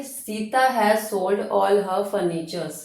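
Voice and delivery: very slow, careful reading; slow dictation. Shown as a demonstration. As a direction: dictate it to the class. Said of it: "rereading example very slowly".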